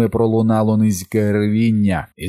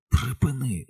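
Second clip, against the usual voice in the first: hissed; 5 semitones higher, 5 dB quieter than usual. A narrator's reading. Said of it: "зашипів він".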